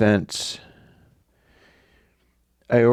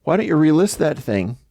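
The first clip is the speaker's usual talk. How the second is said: fast, higher breezy offer; casual bargaining; 4 semitones higher than usual. Retold or imitated. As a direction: toss off a friendly deal. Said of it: "I follow up and go".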